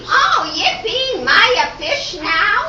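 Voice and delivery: over the moon at her first win; giddy cheer. Acted. Trixie celebrates first correct answer.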